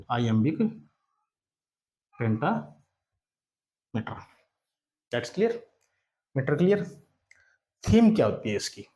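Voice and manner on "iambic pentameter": slowly drawn out. Shown as a demonstration. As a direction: stretch each word out very slowly, iambic pentameter. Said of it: "teacher repeats term for dictation". (iambic pentameter को बहुत धीरे, खींचकर बोलें)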